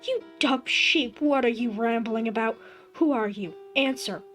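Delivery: furious shout. Acted. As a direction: scream at the impostor. Son confronting ghost.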